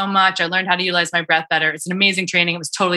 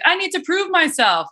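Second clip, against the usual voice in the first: inner voice; 11 semitones higher than usual. Retold or imitated. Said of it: "I was like".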